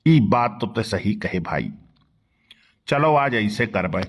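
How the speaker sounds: put-on low, soft old man's voice; a sly old villager agreeing quietly; old man Badke Bappa. Old man agrees to the plan, low and soft.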